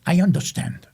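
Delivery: grandmother's German accent, lightly put on; mildly hammed German accent. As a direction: imitate a German-accented granny. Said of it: "she had a German accent".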